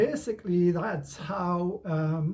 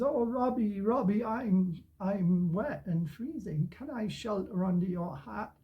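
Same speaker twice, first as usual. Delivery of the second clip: lightly voiced pleading cat, a little higher; gato pedindo abrigo; 4 semitones higher than usual. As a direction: ask sweetly for shelter as a storybook cat. Acting the cat asking for shelter.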